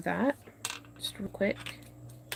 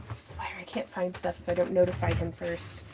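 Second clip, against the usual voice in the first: muffled behind a respirator; talking through a mask; 9 dB quieter than usual. Real, not acted. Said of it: "sounding kinda funny with the respirator on".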